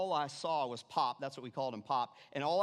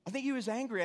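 higher and louder, pressing on he; emphatic take; 8 semitones higher, 3 dB louder, much faster than usual. Shown as a demonstration. Preacher builds it up to the congregation, emphatic. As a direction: drive it up, hit he hard. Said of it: "third take, emphatic".

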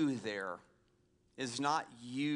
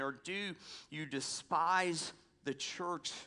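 raised, earnest reading of Paul; scripture reading; 2 semitones higher than usual. Acted. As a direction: read the letter with weight. Reads Paul's rebuke aloud.

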